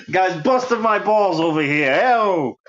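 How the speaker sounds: put-on thick Rhode Island accent, punched up; playful Rhode Island Italian accent. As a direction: toss it off like a Rhode Island guy ribbing friends. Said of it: "that's my Rhode Island accent".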